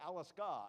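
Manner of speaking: "Alaska" said with stress shifted to the last syllable; wrong-syllable stress. Shown as a demonstration. Magician continuing his syllable joke, "Alaska" as a-las-KA. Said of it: "I put the emphasis on the wrong syllable".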